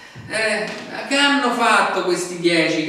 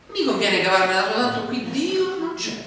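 cynical self-reliance; 5 semitones higher than usual. Retold or imitated. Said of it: "che comincio a pensare".

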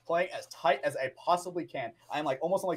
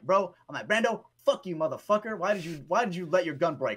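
mock angry rant. Player cursing out his teammate over the gun, mock angry rant. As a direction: vent at him like you're fed up.

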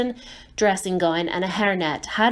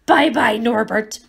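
sobbing; 3 semitones higher, 5 dB louder than usual. Acted. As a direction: sob out the farewell. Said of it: "Hagrid sobbed".

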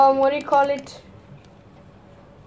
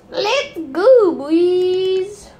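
put-on leader voice; 5 semitones higher, 5 dB louder, much slower than usual. Sims family leader voice.

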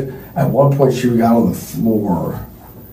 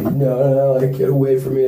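higher, quick retold refusal; imitated panicked protest; 5 semitones higher than usual. Former girlfriend telling him to get away, imitated protest. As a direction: imitate her fending someone off, pitched up and hurried.

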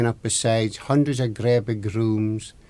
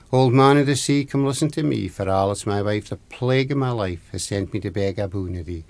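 summoning rhyme. Acted. Husband calls on the old man of the sea, summoning rhyme. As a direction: recite it like an incantation, falling away at the end.

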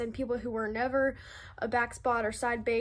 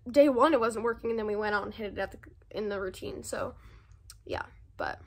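talking while chewing gum; 3 semitones lower than usual. Real, not acted. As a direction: speak around a wad of gum. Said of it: "I'm sorry, I'm chewing gum".

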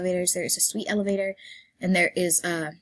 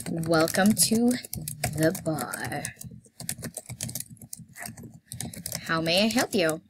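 staff greeting; slower than usual. Pretend. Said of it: "my introduction".

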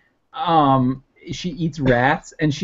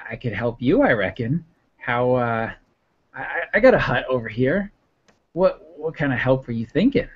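put-on old woman voice; 4 dB quieter than usual. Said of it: "she's like".

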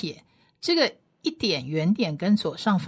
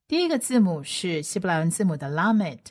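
ordinary talk, nothing marked

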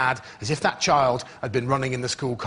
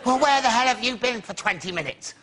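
mock outrage; 11 semitones higher, slower than usual. A teacher hammily shouting at a late pupil. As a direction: squeal it in hammed-up disbelief. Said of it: "I went".

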